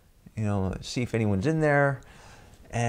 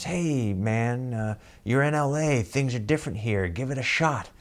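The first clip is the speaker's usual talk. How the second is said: a hint of a sly tempter, slightly higher; shifty little inner voice; 4 semitones higher than usual. Little voice in his head urging him to try, lightly shifty. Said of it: "this shifty little voice".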